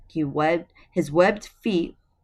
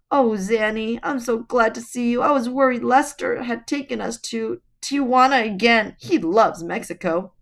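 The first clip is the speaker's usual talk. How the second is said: Mother Goose voice; 7 semitones higher, 6 dB louder than usual. A narrator's reading.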